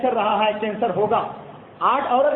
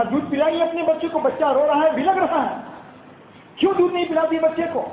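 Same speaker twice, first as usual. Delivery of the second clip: higher, fast mock anger of the caliph; retold angry demand; 3 semitones higher than usual. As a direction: press the mother sharply, faster. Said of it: "حضرت عمر کو غصہ آ گیا".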